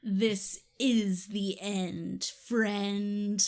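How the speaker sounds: put-on slow, drawn-out kid hero line; dramatic movie line. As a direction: deliver it slowly like a movie climax.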